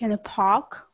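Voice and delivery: "park" said with the R softened away; dropped R. Shown as a demonstration. Student imitating a city accent that drops R, "park" without its R. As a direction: say "park" with an open ah and barely any R. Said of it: "they don't pronounce, like, the R sound".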